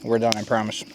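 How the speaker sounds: chewing chips while talking; mouth full. Real, not acted. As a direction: talk through a mouthful of chips. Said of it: "if you can hear me chewing those chips".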